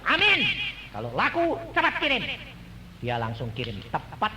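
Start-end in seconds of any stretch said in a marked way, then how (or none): 0.0-2.3 high, loud eager answer; eager reply. Retold or imitated. Preacher retelling his reply to God, high eager answer. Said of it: "Saya bilang".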